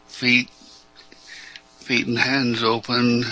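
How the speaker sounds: measured meditation guidance with long pauses; guided meditation. Real, not acted. Teacher guiding callers through opening up, unhurried meditation delivery. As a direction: lead them inward, leaving space after each phrase.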